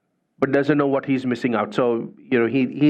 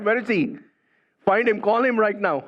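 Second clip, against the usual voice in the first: commanding king; 6 semitones higher than usual. Retold or imitated. King demands caretaker be found.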